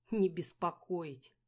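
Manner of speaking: slow, loud mocking snort; contemptuous echo; scornful snort. A narrator's reading. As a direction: sneer the words. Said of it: "фыркнула она".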